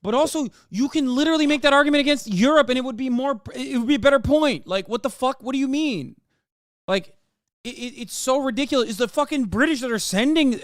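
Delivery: high, loud indignant rant, voice climbing; outraged. Real, not acted. Outraged rant about British role.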